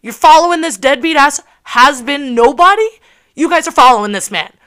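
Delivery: retold tirade. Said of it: "And I'm like".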